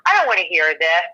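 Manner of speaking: sharp snapping retort; irritated brush-off; single woman snapping at nosy relatives; mildly mad. Retold or imitated. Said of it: "I used to get mad".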